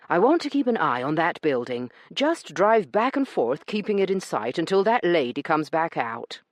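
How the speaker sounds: lightly voiced firm gentleman giving orders; Corbin voiced. Corbin telling the cabbie to circle the building, firm. Corbin instructs the cab driver.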